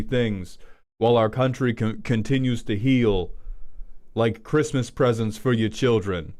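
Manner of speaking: lightly voiced Trump, talking it up like a speech. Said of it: "Whatever, I'm gonna keep doing it".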